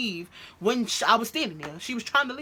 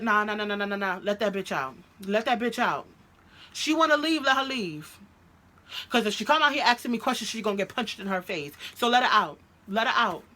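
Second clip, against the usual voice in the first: heated retold argument; 3 semitones higher, 4 dB louder than usual. Girlfriend demanding the other woman be let out, heated. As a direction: fire it back, fed up and loud.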